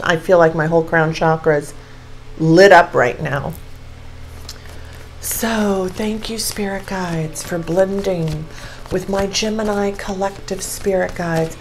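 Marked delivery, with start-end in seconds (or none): 5.2-11.5 soft prayer. Real, not acted. Thanking spirit guides softly.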